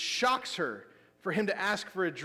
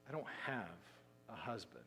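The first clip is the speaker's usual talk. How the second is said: tearful; 6 semitones lower, 13 dB quieter than usual. Retold or imitated. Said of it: "sense the tears welling up".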